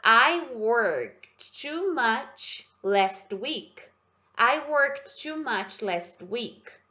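very slow, each word drawn out; slow pronunciation model. Shown as a demonstration. Teacher drilling the class on the sentence, very slowly. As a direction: stretch every word so the class can copy it. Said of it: "Deixa eu só te ajudar com a pronúncia".

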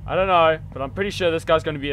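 scared horror game streamer. Real, not acted.

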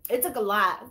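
whispering the line again to the viewers; whispered. Real, not acted. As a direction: breathe it out as a whisper. Repeated testimony line.

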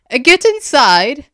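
high, slow, loud command; angry order. A narrator's reading. Aster forcing kids indoors, angry shouted order. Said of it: "Aster growled".

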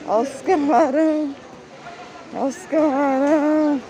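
loud, high street vendor cry; market barker. Retold or imitated. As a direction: hawk shrimp like a market seller. Echoing the shrimp seller's cry.

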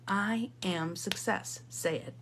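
slow, deliberate declaration; slow affirmation. Shown as a demonstration. Speaker leading the group in owning it, slow affirmation. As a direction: state it slowly, leaving room to repeat. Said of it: "I want you to say out loud".

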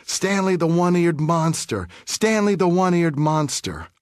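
mock schoolyard jeer, pitched high; sing-song taunt thrown across a yard; taunting shout. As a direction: kid jeering from behind a fence, mild mock yell. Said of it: "he'd shout".

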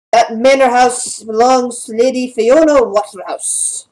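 lightly voiced obliging guard, slow; town guard. Guard giving directions to the party, lightly voiced town guard. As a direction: give directions slowly, stretching the key words.

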